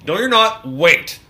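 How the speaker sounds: sharp high shout of alarm; shouting a warning to a friend on a ladder. Retold or imitated. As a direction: yell it up at him in a panic. Panicked at Jim on ladder.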